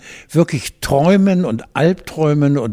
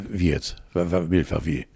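verwirrte eigene Antwort; 7 semitones lower, 8 dB quieter than usual. Retold or imitated. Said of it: "Ich sag".

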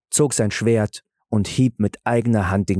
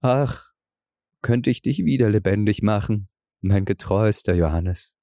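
weeping king; 2 semitones lower than usual. A narrator's reading. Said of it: "weinte er und sprach".

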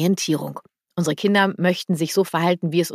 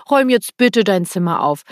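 louder, pressing demand dressed up with bitte; demanding order; 5 dB louder than usual. Retold or imitated. Parent demands the child tidy the room, louder and pressing. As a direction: make the polite word sound like a command. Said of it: "Es ist und bleibt für mich eine Forderung".

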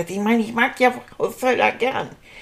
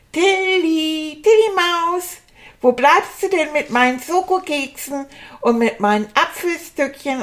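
calling out; 5 semitones higher than usual. Acted. Calling for Tilly from his room.

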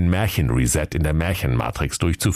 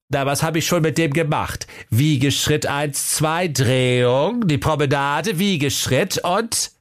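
slow, high, drawn-out dance counts; high-pitched, lilting dancing master; guiltless dance teacher; 9 semitones higher than usual. A narrator's reading. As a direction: count the steps obliviously in a high voice. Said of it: "war sich keiner Schuld bewusst".

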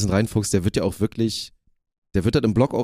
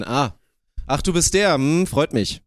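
cold greeting; 4 semitones higher, slower than usual. Pretend. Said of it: "Dann mach ich so den".

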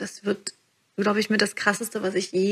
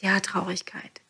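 gentle whisper to sadness. Shown as a demonstration. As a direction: breathe it out like comforting a child. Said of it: "wenn du einfach mal sagst".

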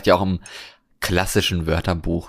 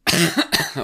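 coughing fit; 9 semitones higher than usual. Real, not acted. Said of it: "Hör auf zu husten jetzt".

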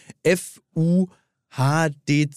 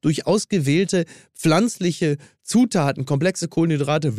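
upbeat sponsor read. Acted. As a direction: sell it like an ad. Continues ad read.

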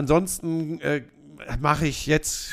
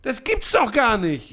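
louder, higher, slower mock scolding; exasperated protest; 5 semitones higher, 3 dB louder, slower than usual. Real, not acted. Co-host teasingly scolding his colleague, exasperated. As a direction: chide him for working too much.

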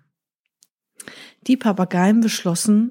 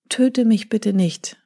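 pleading. Acted. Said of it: "bat Vikra".

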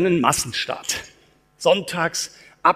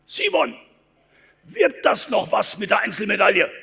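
doubting fans; 4 semitones higher than usual. Retold or imitated. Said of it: "die Leute sprechen ihn an".

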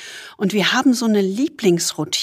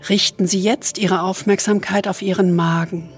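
soothing spa whisper; 4 dB quieter than usual. Acted. Leads a body scan meditation.

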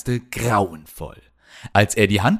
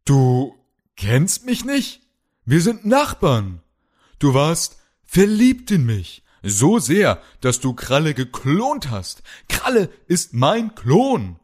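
desperate disbelief; 7 semitones higher than usual. Acted. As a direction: plead with rising desperation. Hero protests disbelieving.

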